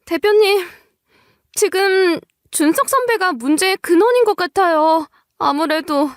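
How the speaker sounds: panicked employee. Acted. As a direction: blurt out trouble at the company in a fright. 직원이 원인을 알림. (겁에 질려 높고 다급한 목소리로)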